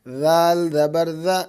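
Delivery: ذال زبر ذا with a soft ذ and no hiss; soft zaal. Shown as a demonstration. Teacher shows the soft zaal to a young learner. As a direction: keep ذا gentle, tongue up, no whistle. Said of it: "اس کو نرمی سے پڑھنا".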